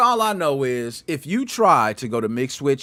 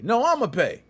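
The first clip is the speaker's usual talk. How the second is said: insisting, pitched way up; mock dinner bill fight; 8 semitones higher than usual. Friend acting out the fight over the check, high insistent. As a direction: jump high to grab the bill. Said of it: "how you fighting to pay for the dinner".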